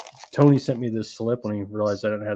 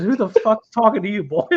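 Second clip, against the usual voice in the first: higher, louder mock villain putdown; mock gangster snap; 9 semitones higher, 4 dB louder than usual. Gang boss snapping at a man who dared to speak, higher mock yell. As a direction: spit it out like a scornful gang boss. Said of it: "And he goes".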